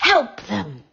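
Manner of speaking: leaves whispering. Acted. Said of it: "the leaves whispered".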